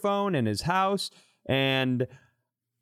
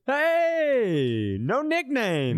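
excited protest; 9 semitones higher, much slower than usual. Real, not acted. Co-host objects loudly.

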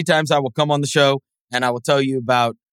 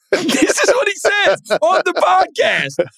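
incredulous shout; 13 semitones higher than usual. Real, not acted. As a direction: exclaim it in amazed disbelief.

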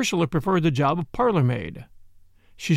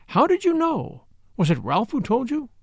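startled; 7 semitones higher than usual. A narrator's reading. Startled girl asks Poirot.

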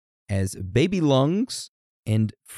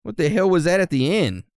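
surprised; 7 semitones higher, 4 dB louder than usual. Real, not acted. Reacting to voice crack.

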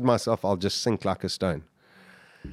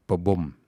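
imitated heartbeat; 5 semitones lower than usual. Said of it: "your heart would have been going".

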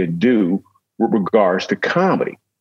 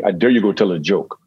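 put-on weak try at a German accent; attempted German accent; 3 semitones lower than usual. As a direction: do a half-hearted German accent. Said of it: "That's the best German accent I could do".

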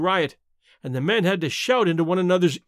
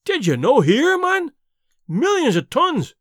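high, loud Scottish outburst; frantic cry; 8 semitones higher, 5 dB louder than usual. A narrator's reading. Frantic Scot to the mate holding him back, crying out. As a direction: exclaim in a raised, desperate voice. Frantic Davy shakes off Donald.

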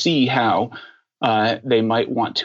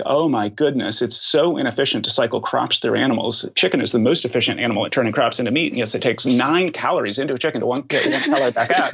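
mock rant. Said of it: "And I would proceed to rant".

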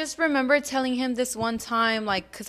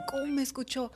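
hushed, higher mock mom whisper; imitated alarmed whisper; 4 semitones higher, 5 dB quieter, faster than usual. Daughter repeats mom's worried question about dad, whispering.

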